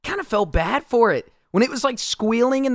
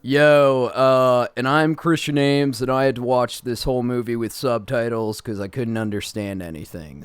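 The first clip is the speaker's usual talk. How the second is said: put-on South London accent; 6 semitones lower than usual. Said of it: "that southern London accent".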